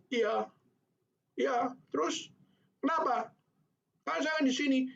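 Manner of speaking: put-on high, cheeky child's voice talking back. Child answering teacher back.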